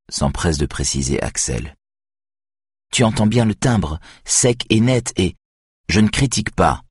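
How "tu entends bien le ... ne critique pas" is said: a touch of coolness, pitched higher; cold. A narrator's reading. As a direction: keep it cool and detached. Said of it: "poursuit froidement Axel". (Axel poursuit froidement)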